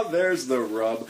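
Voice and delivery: slow hammed-up Shakespeare reading; dramatic recitation. Host reciting Hamlet on Poetry Time, slowly declaimed. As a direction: declaim it slowly like a stage actor. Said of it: "I'm gonna read this little bit here".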